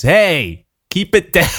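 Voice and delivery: mock gruff old man with a laugh; grumpy old neighbor. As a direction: play the cranky neighbor, half laughing. Imagined neighbor voiced.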